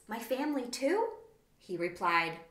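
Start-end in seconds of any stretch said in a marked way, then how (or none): 0.1-1.1 surprised. Acted. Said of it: "Wendy blinked in surprise".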